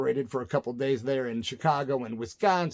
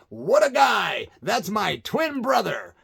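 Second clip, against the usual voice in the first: mic shout-out; 6 semitones higher, slower than usual. Retold or imitated. The singer on the mic praising his friend outside, higher and slow. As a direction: hype up your buddy over the mic. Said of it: "he says on the mic".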